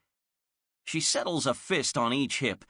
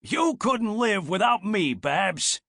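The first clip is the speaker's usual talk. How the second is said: teasing guinea pig; 9 semitones higher, 4 dB louder than usual. Acted.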